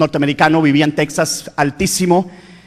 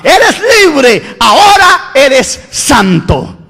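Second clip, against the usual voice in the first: joyful angel; 3 semitones higher, much slower than usual. Acted. Angel announces forgiveness.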